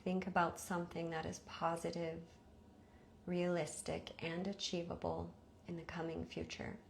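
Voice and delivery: measured meditation voice with long pauses; guided meditation. Acted. Teacher leading listeners into rest before sleep, guided meditation. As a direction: guide them evenly, leaving space after each instruction.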